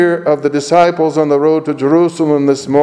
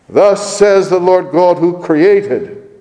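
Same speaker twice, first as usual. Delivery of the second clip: slow, created pressed hard; stress on created; 5 semitones higher, 3 dB louder, slower than usual. Shown as a demonstration. Preacher underlining created in Isaiah, slow and stressed. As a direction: weigh down on created. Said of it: "underline that word".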